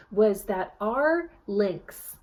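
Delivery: ordinary delivery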